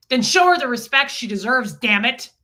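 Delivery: retold angry rebuke from husband. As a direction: scold the old friend for the slight. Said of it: "He was mad".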